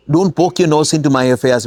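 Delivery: a firm don't poke your nose; telling someone off. Shown as a demonstration. Teacher demoing a rebuke for students, firm. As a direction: warn them off, firmly. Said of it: "we would say".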